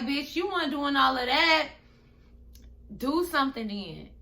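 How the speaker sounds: put-on taunting the girl in front of her gang; loud taunt. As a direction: dare her to act. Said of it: "I'm like".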